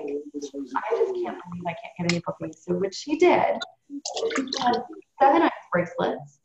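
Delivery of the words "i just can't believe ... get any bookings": softly voiced, low-key dejection; mildly discouraged. Friend struggling for bookings confides in her, mildly dejected. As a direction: retell her discouragement in a quieter voice.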